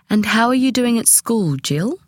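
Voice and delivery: the guest politely asks Jill about school; polite inquiry. A narrator's reading. The guest asking Jill politely. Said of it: "he inquired politely".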